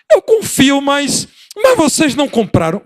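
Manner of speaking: put-on high, tearful child's protest; crying child. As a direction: sob it out like a small kid. (voz de criança chorando, bem aguda)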